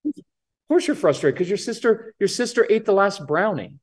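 put-on the version that sets a kid off. Shown as a demonstration. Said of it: "high-pitched ... makes people much more upset".

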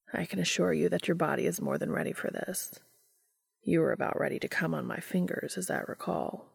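lightly voiced, soft reassuring lover; Cass, composed lover.

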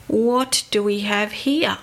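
lightly imitated broad Scottish accent, concerned; a hint of a Scottish policeman's brogue. Policeman finding the stranded girls, mild broad Scottish accent. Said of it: "in his broad Scottish accent".

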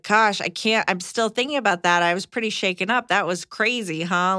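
gently shaken-up, lightly modelled; non-accusatory. Shown as a demonstration. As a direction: open up without blaming. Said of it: "make sure it's not accusatory".

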